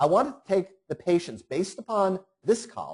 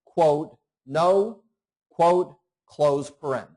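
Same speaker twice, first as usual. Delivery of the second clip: dictating; 2 semitones higher, slower than usual. Shown as a demonstration. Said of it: "dictating formula syntax aloud".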